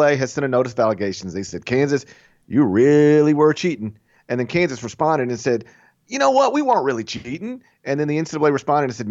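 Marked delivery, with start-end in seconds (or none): 1.7-4.0 mock NCAA voice. Podcaster mimics the NCAA accusing Kansas, mock stern. 6.1-7.6 high-pitched mock denial; mock Kansas denial. Podcaster mimics Kansas denying cheating, high mock protest. Mocking Kansas reply to NCAA.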